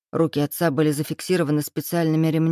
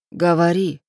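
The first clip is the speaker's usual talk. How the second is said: rumbled demand; 4 dB louder than usual. A narrator's reading. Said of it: "пророкотал я".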